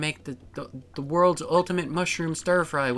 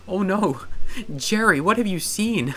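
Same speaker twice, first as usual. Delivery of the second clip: mock alarm; 7 semitones higher, 4 dB louder than usual. Mock alarm at Jerry's past.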